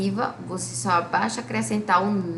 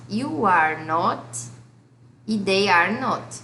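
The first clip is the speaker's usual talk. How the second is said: slow chanted conjugation drill; much slower than usual. Shown as a demonstration. Teacher drills negative forms of to be slowly. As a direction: drill each line slowly for the class. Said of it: "Olha aqui os exemplos".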